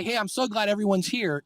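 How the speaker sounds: addressing a crowd. Shown as a demonstration. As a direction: greet a roomful of listeners. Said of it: "you sound like you're in a room with a bunch".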